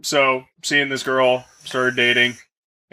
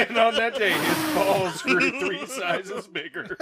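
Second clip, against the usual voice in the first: laughing through the words, slower; 4 semitones higher, 4 dB quieter, slower than usual. Real, not acted. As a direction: giggle your way through it. Repeats line while laughing.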